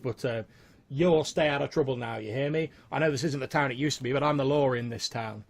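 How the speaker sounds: lightly voiced lawman, halting, then firm; hint of a sheriff laying down the law; stern sheriff.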